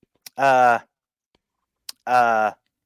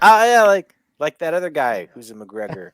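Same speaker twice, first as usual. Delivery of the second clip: excited; 7 semitones higher, 7 dB louder than usual. Retold or imitated. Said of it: "and going".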